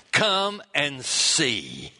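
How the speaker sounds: slow, drawn-out welcome; grand invitation. Acted. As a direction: open your arms and invite slowly.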